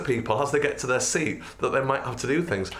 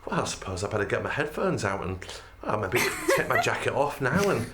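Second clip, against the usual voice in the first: dawdling passenger; 4 semitones higher than usual. Retold or imitated. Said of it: "And then they go".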